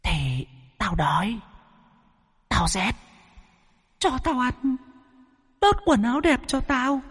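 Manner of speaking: high, soft wailing ghost voice; a hungry spirit whining through her; ghostly possessed woman. A narrator's reading. Hungry ghost wails at the old master, high and soft.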